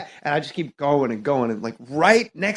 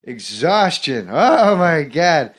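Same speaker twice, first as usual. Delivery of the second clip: Norm Macdonald impression. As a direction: ramble and circle back like Norm. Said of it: "but I'm doing Norm".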